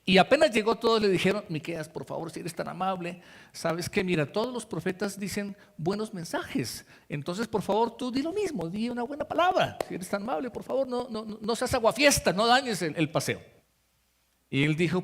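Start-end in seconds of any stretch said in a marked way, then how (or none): 1.5-13.4 coaxing plea. Retold or imitated. Prophets softly coax Miqueas to give a good word. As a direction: sweet-talk him into going along.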